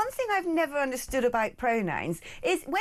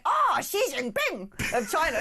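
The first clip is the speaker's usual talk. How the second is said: put-on Chinese accent; 4 semitones higher than usual. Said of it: "stepped over the line".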